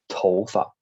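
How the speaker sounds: 头发 with 发 light and toneless; neutral tone fa. Shown as a demonstration. Teacher shows students 头发 said with a neutral fa. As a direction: let 发 trail off unstressed after 头. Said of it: "I did use another neutral tone".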